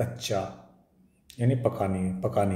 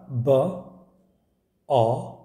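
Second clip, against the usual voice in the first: slow sounding out; much slower than usual. Shown as a demonstration. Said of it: "क्या है?".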